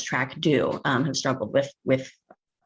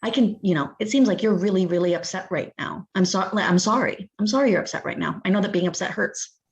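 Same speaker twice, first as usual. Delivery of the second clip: gentle validating; 4 semitones higher than usual. Shown as a demonstration. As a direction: reassure a kid who is crying. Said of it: "to have someone say they see you and say".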